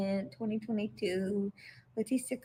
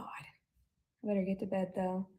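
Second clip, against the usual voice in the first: slow, softer whispered aside; 8 dB quieter, slower than usual. Real, not acted. Winding down alone at night, a slow whisper. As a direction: whisper it to yourself.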